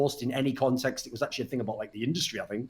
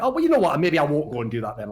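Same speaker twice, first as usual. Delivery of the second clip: sarcastic retort. Retold or imitated. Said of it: "I just said something like".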